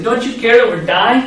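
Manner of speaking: mock panic of frightened men; panicked plea. Disciples panicking in storm.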